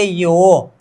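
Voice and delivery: यो with a long drawn-out "o"; pronunciation demo. Shown as a demonstration. Teacher names the new sound, pronunciation demo. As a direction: stretch यो slowly for the learners. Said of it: "इसको बोलेंगे".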